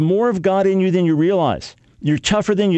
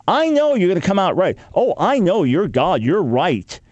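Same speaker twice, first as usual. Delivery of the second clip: sarcastic concession. Retold or imitated. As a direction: roll your eyes and concede with sarcasm. Jeremiah mocking God's certainty.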